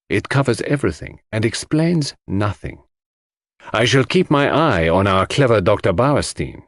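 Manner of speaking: lightly voiced Belgian detective, dry and knowing; Poirot's voice. Poirot telling Hastings he will watch the doctor, lightly voiced.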